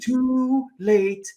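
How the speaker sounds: high, loud manic imitation; Nicolas Cage impression. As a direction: ham up a frantic Cage. Imitating Cage's ranting delivery.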